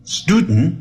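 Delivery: quick student as "STOO-dn"; clipped student with nasal ending; reduced ending. Shown as a demonstration. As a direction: swallow the vowel before the final n in student. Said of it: "变成student".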